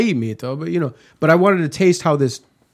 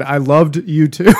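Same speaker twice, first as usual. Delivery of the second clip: laughing; 5 dB louder, slower than usual. Real, not acted. Retold text, cracking up.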